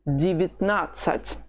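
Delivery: Девятнадцать with both first vowels said as i, dee-vit-NAT-sat; reduced vowels demo. Shown as a demonstration. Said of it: "you say them both as i".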